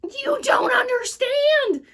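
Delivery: high, slow, loud protest; boy begging the librarian to listen; desperate insistence. Acted. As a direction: plead to be believed.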